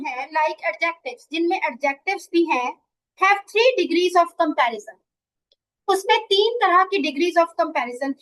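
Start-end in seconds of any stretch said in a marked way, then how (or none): 3.2-5.0 slow, deliberate reading of the rule; slow dictation read. Shown as a demonstration. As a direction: read it out word by word for the class. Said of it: "teacher reads rule slowly". (धीमी, साफ़ पढ़ाई वाली आवाज़)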